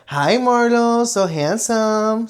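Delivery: lightly imitating her cousin, drawn out; cousin's dog greeting. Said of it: "Mi prima Marcela siempre dice".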